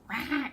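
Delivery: mock angry growl at the kid; imitating a parent's reactive bark. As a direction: snap back with a short growl. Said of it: "rather than me going".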